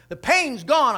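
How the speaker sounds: high, loud burst of joy; retold amazed relief. Healed woman telling those around her, amazed relief. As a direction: burst out with the good news, imitating.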